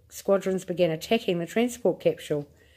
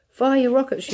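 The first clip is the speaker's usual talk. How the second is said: high, louder shout; 7 semitones higher, 4 dB louder than usual. A narrator's reading. President shouting orders at astronauts, high shout. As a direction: bark the order down the line. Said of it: "shouted the president".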